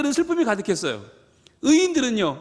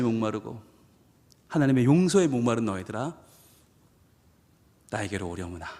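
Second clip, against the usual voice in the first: God's tender voice; 5 semitones lower than usual. Retold or imitated. God gently calling his children to come to him, low and tender. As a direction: speak as a loving father, low and tender.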